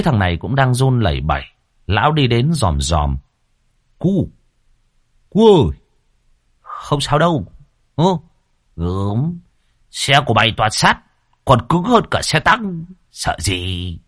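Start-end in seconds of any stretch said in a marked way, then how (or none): 4.0-14.0 jovial reassuring. A narrator's reading. Old man comforting scared farmhand.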